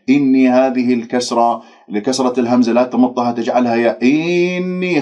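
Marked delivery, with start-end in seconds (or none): 4.0-5.0 إني with the kasra stretched to ي; wrong stretched demo. Shown as a demonstration. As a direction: show the mistaken long إني. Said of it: "خطأ".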